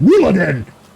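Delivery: loud, high-pitched, properly angry outburst. Showing how a word must be said to sound right, said angrily. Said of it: "You gotta say it angrily".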